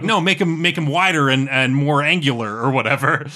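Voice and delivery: rude interjection. Acted. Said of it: "kinda rudely interjects and is like".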